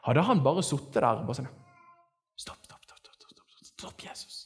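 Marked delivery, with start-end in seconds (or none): 2.4-4.4 rapid repeated whisper; silent inner plea. Acted. Preacher mimics blind man pleading inwardly, whispered. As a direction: whisper it urgently, as if only thinking it. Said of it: "inni seg".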